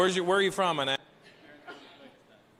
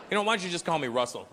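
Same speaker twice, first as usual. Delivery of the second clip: ordinary talk, nothing marked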